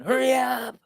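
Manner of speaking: high, stretched mock holler; imitated kids yelling. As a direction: imitate a kid calling out impatiently. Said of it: "And they're yelling".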